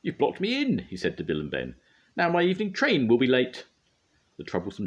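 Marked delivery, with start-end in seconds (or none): 0.0-0.8 much higher, louder furious engine. A narrator's reading. Gordon furious at the twins for blocking him, angry higher shout. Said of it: "he was furious". 2.2-3.7 much higher, louder furious engine. A narrator's reading. Gordon furious at the twins for blocking him, angry higher shout. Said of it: "he was furious".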